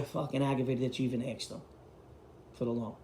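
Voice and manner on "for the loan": normal talking voice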